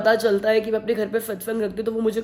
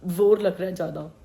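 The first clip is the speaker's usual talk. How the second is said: straining to speak; 4 semitones lower than usual. Real, not acted. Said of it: "मुझे बोलते हुए ना थोड़ा".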